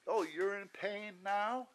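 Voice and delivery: high, slow, mocking sarcasm; sarcastic. Receptionist mocking the patient in pain, slow and sarcastic. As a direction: drag it out like a snide receptionist.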